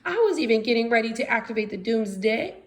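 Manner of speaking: high, loud angry shout; furious scientist shouting at her assistant. Acted. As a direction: yell at Igor, outraged. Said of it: "Franny began to shout".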